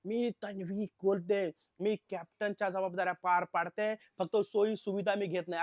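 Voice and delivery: mildly hammed-up yelling complaint; Tanvi. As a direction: imitate someone hollering self-importantly. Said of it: "ती जोर जोरात बोंबला लागली".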